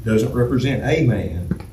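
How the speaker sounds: A said as a full "ay"; emphasis on A. Shown as a demonstration. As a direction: stress the article A before man. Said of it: "emphasis on a".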